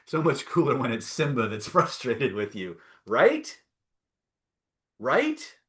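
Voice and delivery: can't hold back the giggle; laughing through it. Real, not acted. Coach amused by imagining Simba as the inner voice, laughing.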